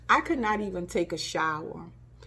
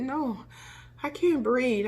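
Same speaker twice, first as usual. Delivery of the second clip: higher, anxious plea; retold panic; 6 semitones higher, slower than usual. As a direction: insist you can't breathe, worried. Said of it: "And I said".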